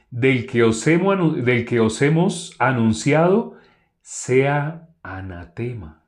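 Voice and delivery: slow, weighty Bible reading; solemn scripture reading. Acted. Preacher reading Galatians to the congregation, slow and solemn. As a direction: read each phrase like a verdict.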